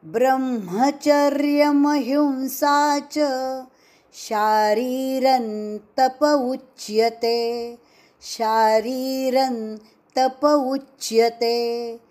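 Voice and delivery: slow, measured Sanskrit chanting; slow Sanskrit verse recitation; shloka recitation. Shown as a demonstration. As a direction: recite the verse slowly for students to repeat.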